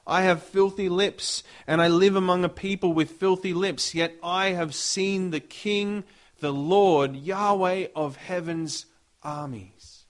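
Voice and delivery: a prophet crying out he is doomed; doomed despair. Acted. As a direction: wail that all is lost. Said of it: "he says".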